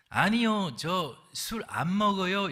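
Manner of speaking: a mildly voiced newcomer turning down a drink; newcomer refusing. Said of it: "신참 외국인 노동자가".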